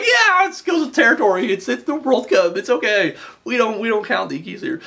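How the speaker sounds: high, casual shrug-it-off referee voice, lightly done; mock referee. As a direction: brush it off like a lenient referee, up high. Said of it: "Referee's just like".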